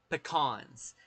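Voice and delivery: "Pecans" as puh-KAHNS; Southern pecan pronunciation. Shown as a demonstration. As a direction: stress the second syllable of "Pecans", open ah vowel. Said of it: "say it in the different ways".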